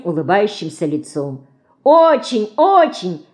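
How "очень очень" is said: put-on high, eager little-girl exclamation; excited cry. A narrator's reading. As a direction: shout it out with delight, higher. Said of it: "закричала Мышка". (восторженно, высоким голосом)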